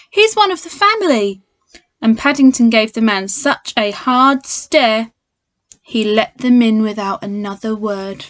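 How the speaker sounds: lively storybook read-aloud; reading to children. A narrator's reading. Teacher reads Paddington to children at home, lively storybook voice. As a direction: read it like a bedtime picture book for kids.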